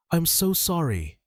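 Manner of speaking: high, tearful, breaking apart; cracking with tears. A narrator's reading. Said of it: "her voice breaking".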